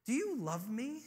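soft, tender question; lightly voiced dad asking with care; gentle father. Dad asks his little girl at bedtime, gently.

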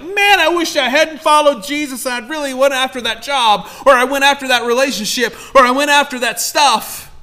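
high, loud whiny regret; mock regret. Imagined believer regretting following Jesus, high loud mock lament. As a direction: play the believer wishing he hadn't. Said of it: "you're not gonna be like".

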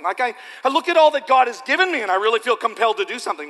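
earnest believer. Pretend. Voiced eager believer.

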